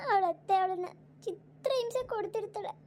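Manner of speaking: tearful mother sobbing out her worry; words breaking with tears over her daughter; crying. Acted. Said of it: "ಯಾಕ್ ಅಮ್ಮ ಹಿಂಗ್ ಅಳ್ತಾ ಕೂತಿರೋದು?". (ಅಳುತ್ತಾ)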